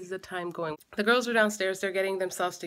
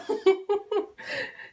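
high-pitched burst of laughter; 11 semitones higher than usual. Real, not acted. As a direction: squeal with laughter. Mom laughs at baby.

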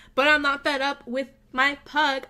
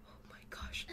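whisper; 21 dB quieter than usual. Real, not acted. Awed at pug's next move.

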